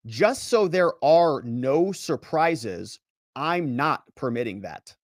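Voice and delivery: slow, pointed, throwing his words back; slow mocking echo. Judge throwing the lawyer's words back, slow and pointed. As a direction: echo the lawyer's phrase back at him, slowly.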